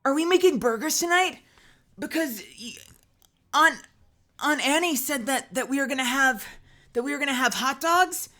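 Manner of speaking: high, eager little cousin voice; a pleading young cousin; imitating a young cousin. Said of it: "how my brother and I imitate our cousins".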